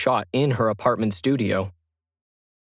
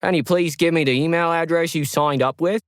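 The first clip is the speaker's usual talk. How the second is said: calm reply; 6 semitones higher than usual. Acted. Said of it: "Max calmly replied".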